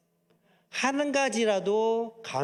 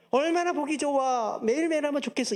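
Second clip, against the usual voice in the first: much higher, hammed-up gushing praise with a hook; mock gushing wife; 9 semitones higher than usual. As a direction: overdo the praise, then slip in the demand. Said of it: "이게 아니라 그냥 그때만". (과장되게 높은 목소리로 칭찬하며 요구하기)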